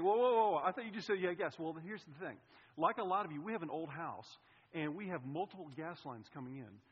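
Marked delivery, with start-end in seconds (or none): 0.0-1.6 loud, higher disbelieving whoa; voicing the listener's shocked objection; alarmed protest. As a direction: stop them short in disbelief. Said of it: "So you're saying".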